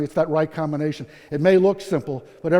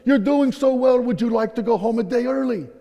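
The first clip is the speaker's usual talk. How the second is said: raised, enthusiastic offer; eager acted praise, pitched up; upbeat surgeon; 5 semitones higher than usual. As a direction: imitate a delighted doctor.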